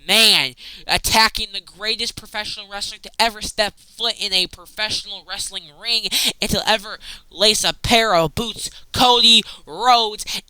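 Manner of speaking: yelling at the TV. Retold or imitated. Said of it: "yelling at my T V screen".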